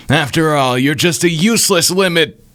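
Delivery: high, sneering villain voice; theatrical high-pitched contempt; taunting villain. Acted. Voices the taunting enemy Oster.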